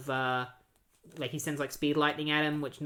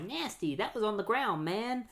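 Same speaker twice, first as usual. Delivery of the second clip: higher, softer grossed-out whine; disgusted trickster; 6 semitones higher, 4 dB quieter than usual. Retold or imitated. Trickster grossed out by gum off the ground, lightly voiced disgust. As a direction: pull a face and whine about the gum. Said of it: "The trickster's just like".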